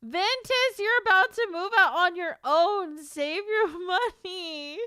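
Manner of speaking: high teasing scold at a fan; playful scold. Real, not acted. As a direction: call out a chatter to save his money.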